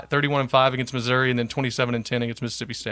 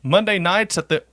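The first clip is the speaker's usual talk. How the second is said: radio announcer voice; 3 semitones higher than usual. Shown as a demonstration. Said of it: "I'm gonna read it like a radio guy".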